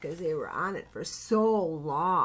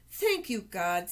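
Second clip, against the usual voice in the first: Noah. Acted. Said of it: "said Noah".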